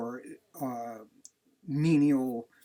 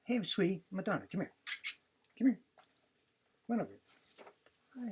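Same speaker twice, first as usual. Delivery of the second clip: high dog call; 7 semitones higher than usual. Real, not acted.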